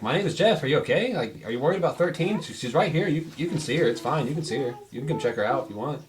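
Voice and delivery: high, bright-eyed guard rambling; guards' muddled voice. Acted. Guard trying to reassure Jeff's player, high and eager. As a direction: play the dim guard all eager and confused. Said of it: "they're like".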